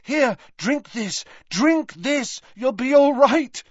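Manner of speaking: high, urgent, desperate coaxing. Acted. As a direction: urge him frantically. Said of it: "said Harry desperately".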